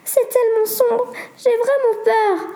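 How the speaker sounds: trembling fear in the dark; scared. Acted. Sarah to Corentin in the cave, high slow fear.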